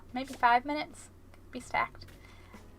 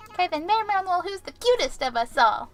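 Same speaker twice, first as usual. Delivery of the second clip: high, lilting fairy-tale voice; high-pitched storybook question to a mirror; 5 semitones higher, faster than usual. Retold or imitated. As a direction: ask the magic mirror in a sing-song. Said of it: "asking the mirror again".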